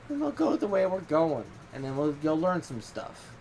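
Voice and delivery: a calm god settling the matter; imitating Loki. Loki telling the narrator how things will go, in a put-on god voice. Loki's reply in retold chat.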